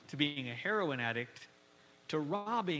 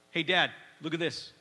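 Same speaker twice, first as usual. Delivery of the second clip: put-on eager child; 4 dB louder than usual. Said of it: "a phrase you hear a hundred times".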